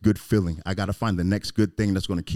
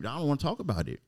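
put-on higher, pained voice of a hurt kid; 8 semitones higher than usual. Childhood self refusing to talk, higher and pained. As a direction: pull back like a wounded child. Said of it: "I was like".

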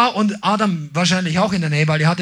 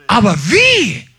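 ordinary delivery

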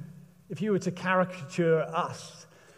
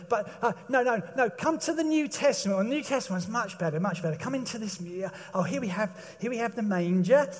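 museum guide; 3 semitones higher than usual. Retold or imitated. Caricature museum guide continues.

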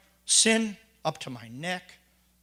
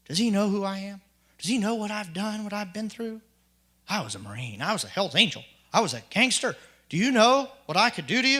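indignant rant building; 3 semitones higher than usual. Retold or imitated. Retold indignant inner rant at boss.

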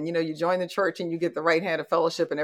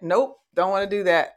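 imitating mom. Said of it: "she is really good at".

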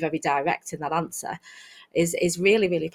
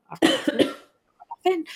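whiny student; 10 semitones higher, much faster than usual. Retold or imitated. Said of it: "they were like".

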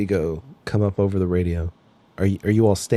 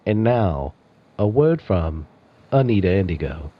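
announcer. Acted. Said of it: "you hear an announcer say".

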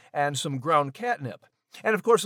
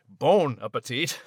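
Scottish imitation; 6 semitones lower than usual. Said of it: "as Max would say".

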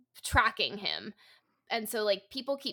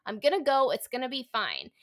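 higher, louder retelling of standing her ground; defiant resolve; 6 semitones higher, 5 dB louder than usual. Retold or imitated. Heroine telling her controlling partner she's going, defiantly raised. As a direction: declare you're leaving, chin up. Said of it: "And then one time she's like".

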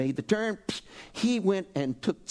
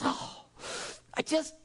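soft, breathy, trailing words of love; intimate whisper; 6 semitones higher, 5 dB quieter than usual. Shown as a demonstration. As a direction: whisper it like a private prayer. Voicing a worshipper's inner prayer.

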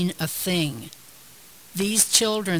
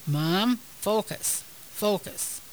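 loving voice; 3 semitones higher than usual. Retold or imitated. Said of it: "I can hear her loving voice".

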